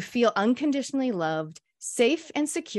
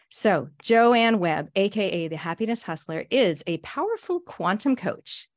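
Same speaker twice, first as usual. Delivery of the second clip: announcer intro. Acted. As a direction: present her like a stage announcer, taking your time. Host formally introduces guest.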